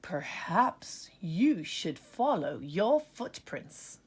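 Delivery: slow wise whisper; whispered suggestion. Acted. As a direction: breathe it like an old owl. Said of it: "suggested the owl".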